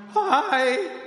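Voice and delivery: high, strained squeak of a hi; lost voice. Retold or imitated. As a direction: imitate answering the phone with no voice. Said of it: "I can't talk".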